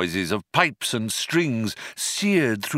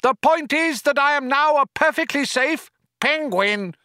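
higher, louder furious penguin rant; raging; 12 semitones higher, 3 dB louder than usual. Acted. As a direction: keep raging at the voice. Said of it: "raged Ford".

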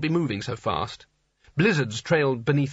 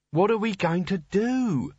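wail; 6 semitones higher, slower than usual. A narrator's reading. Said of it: "she wailed".

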